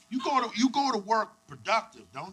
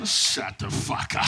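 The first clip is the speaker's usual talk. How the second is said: hushed mock disbelief; whispered; 4 dB quieter, slower than usual. Real, not acted. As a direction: breathe it out under the breath. Reacting to crowd.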